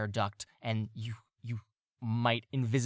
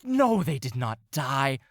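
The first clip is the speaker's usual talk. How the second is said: slow, loud, much higher cat scolding; scornful cat; 4 semitones higher, 7 dB louder, slower than usual. Acted. Second cat scolds its dim partner, slow and loud. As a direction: drag out the insult like a haughty cat. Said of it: "And the other cat goes".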